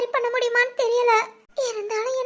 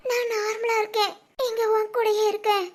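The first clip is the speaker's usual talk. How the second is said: tearful; 2 semitones lower than usual. Acted. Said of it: "Shivani அழுகுறாங்கிறதுக்காக".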